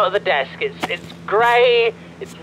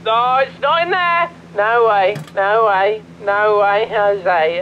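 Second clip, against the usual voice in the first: adamant denial; slower than usual. Acted. Panicked denial that it is there.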